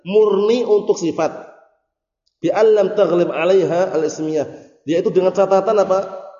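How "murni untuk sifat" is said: slow emphasis. Shown as a demonstration. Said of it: "ya kan?".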